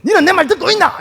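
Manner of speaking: put-on angry father blowing up at his child in dialect; exploding in Gyeongsang dialect. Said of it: "탁 터지가지고".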